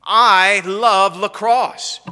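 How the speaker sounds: slow, loud, drawn-out gushing claim; hammed-up big claim of love; mock boast. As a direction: overdo the proud fan line. Acted boast in a mini skit.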